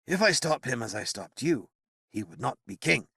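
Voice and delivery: wizard to the paralyzed knight, resigned. Acted. Merlin voiced in narration.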